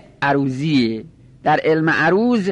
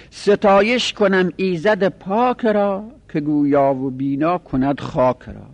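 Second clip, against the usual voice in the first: verse recitation; 3 semitones higher than usual. Shown as a demonstration. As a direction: recite the first line raised and drawn out, then let it fall. Recites a second example couplet.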